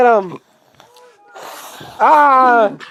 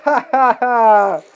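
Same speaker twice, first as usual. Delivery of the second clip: evil laugh; slower than usual. Pretend. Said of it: "it's evil laugh".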